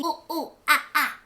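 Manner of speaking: lightly voiced monkey hoots; a mild ooh ooh ah ah like a monkey; a gentle monkey call for the children; monkey sounds. Shown as a demonstration. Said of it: "Let's sound like a monkey".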